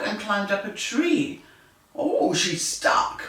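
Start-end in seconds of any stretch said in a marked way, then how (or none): 2.0-3.2 slow whispered worry; worried whisper. Acted. Old MacDonald sees the cat up a tree, slow whisper. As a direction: breathe it out slowly, worried. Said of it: "said Old MacDonald".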